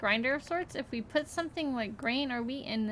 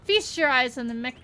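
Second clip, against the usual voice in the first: gloating villain. Acted. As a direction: lord it over the heroes you tricked. Gloating villain reveal speech.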